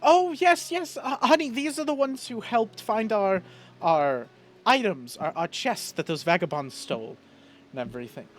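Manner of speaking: high-pitched, delighted wife recognising the helpers; wife piping up in excited recognition. Acted. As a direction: gush to your husband, starting high and settling down. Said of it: "she goes".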